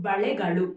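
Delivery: బళెగడు loudly, both l sounds as ళ; firm, careful model of బళెగడు; careful retroflex ళ. Shown as a demonstration. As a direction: curl the tongue back twice in బళెగడు. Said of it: "చాలా జాగ్రత్తగా పలకాలి".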